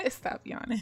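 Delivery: giggling through the words; laughing. Real, not acted. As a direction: say it while laughing at yourself. Laughing at her own yawning.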